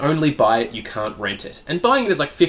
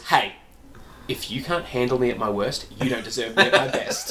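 mock Minion; 5 semitones lower, 6 dB quieter than usual. Acting a Minion quote.

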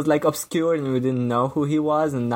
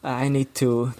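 lightly voiced Bond villain gloat; megalomaniac rant; 2 semitones higher than usual. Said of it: "like, a Bond villain speech".

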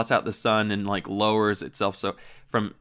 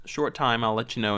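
put-on Minnesota accent. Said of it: "she's like".

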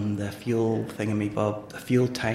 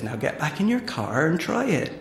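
lightly voiced, higher country farmer accent; amateur rustic farmer accent; 4 semitones higher than usual. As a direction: instruct in a put-on farmer accent. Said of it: "I'm really sorry about the accent".

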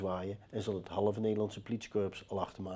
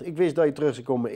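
mocking echo; 3 semitones higher, 7 dB louder, faster than usual.

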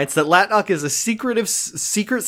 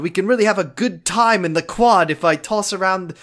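slightly raised, eager RA patter; chummy RA; 3 semitones higher than usual. Retold or imitated. Cassidy proposing fun in the quad, chummy RA. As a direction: pitch dorm fun like an overkeen advisor. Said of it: "talks to Mark like he's his fucking R A".

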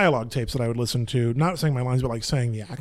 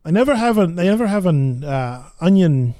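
rough Brooklyn deli-customer line; fumbled line in attempted Brooklyn accent. Actor groping for old play lines, Brooklyn accent. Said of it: "I'm not doing a great job".

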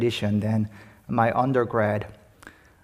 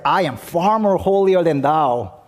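smug self-righteous; 4 semitones higher, 4 dB louder than usual. Retold or imitated. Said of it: "the fundamentalist who's like".

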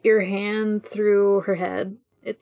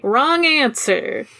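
menacing villain voice; 6 semitones higher, slower than usual. Retold or imitated. Villain voice in a retold scene.

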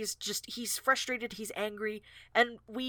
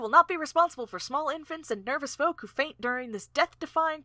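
5 semitones higher than usual. Acted.

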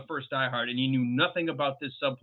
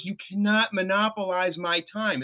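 imitated teacher's rebuke, higher voice; lightly voiced teacher telling off a pupil; schoolteacher; 5 semitones higher than usual. Stewardess scolds passenger like a schoolboy, lightly voiced teacher. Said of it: "It's like a teacher saying".

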